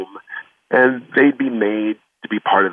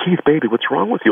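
a hint of a worried mother, pitched higher; mother's voice; 7 semitones higher than usual. Mom asking young son what's wrong, lightly voiced higher.

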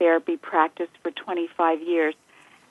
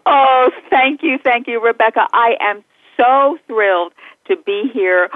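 delighted; 3 semitones higher, 5 dB louder than usual. Real, not acted. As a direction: gush your thanks, still laughing. Guest welcomed warmly on show.

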